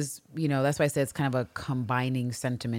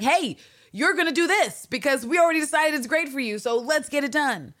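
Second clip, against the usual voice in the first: bossy mock voice; 11 semitones higher than usual. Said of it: "She was like".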